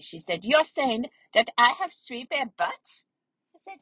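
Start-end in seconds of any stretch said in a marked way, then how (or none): 0.4-3.1 slow, higher indignant question; put-on cross disbelief; mad. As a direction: act offended, stretching out the accusation. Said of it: "then she got mad at me".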